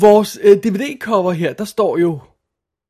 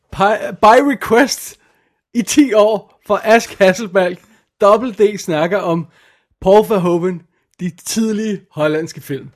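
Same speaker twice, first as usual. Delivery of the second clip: slow, drawn-out request-show announcer; mock radio host; 3 dB louder than usual. Introducing the film episode as a mock request show, slow announcer voice. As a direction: announce it like a cheesy DJ.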